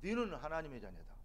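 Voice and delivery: soft, grave warning from a mother; mother's quiet warning. Retold or imitated. Mother warning her grown son, softly and gravely. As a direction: hush it into a heavy reminder. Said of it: "그 소리는 두려우니까".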